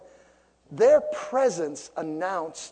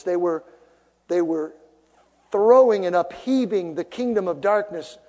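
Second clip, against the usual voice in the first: normal talking voice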